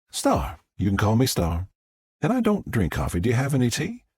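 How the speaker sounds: a hint of a friendly Southern guest; lightly voiced Southern woman. Guest corrects her host on her name, lightly Southern. Southern visitor gives nickname.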